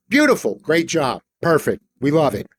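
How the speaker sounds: high, gushing beautiful; sarcastic director's applause; mock praise. The speaker mock-praising Anna's prayer, high and gushing.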